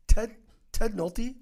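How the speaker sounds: high, loud mock disbelief; incredulous teacher. Author mocking his English teacher's disbelief, high and loud. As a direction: play the shocked old teacher who can't believe it.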